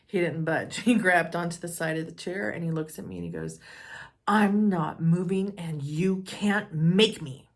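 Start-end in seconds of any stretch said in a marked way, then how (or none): 4.3-7.5 stubborn dad. Retold or imitated. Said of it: "He was serious".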